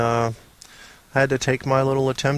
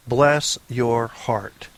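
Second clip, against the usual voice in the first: slow bless your heart; much slower than usual. Shown as a demonstration. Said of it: "Bless your heart if you can do that".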